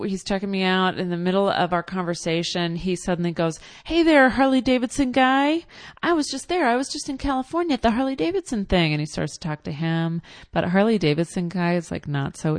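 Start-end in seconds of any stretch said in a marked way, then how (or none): 3.8-8.9 high, loud, fast mock salesman hailing a biker; excited salesman. Salesman calls to a biker customer, high loud and fast. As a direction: bellow it across the shop, all revved up.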